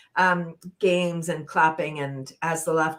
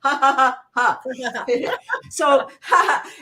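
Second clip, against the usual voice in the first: giggly ha ha, louder; giggling out; 4 semitones higher, 6 dB louder, slower than usual. Shown as a demonstration. Leader giggling the breath out for the class. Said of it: "we're gonna giggle it out".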